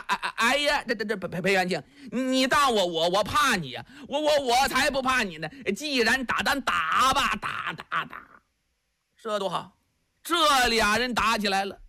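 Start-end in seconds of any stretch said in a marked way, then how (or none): 0.1-8.2 simple giant stammering on every syllable; lightly voiced stammering giant urging his friend to flee; stammering Li Yuanba. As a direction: repeat each syllable like a dim-witted strongman. Li Yuanba stammers, accepting fight.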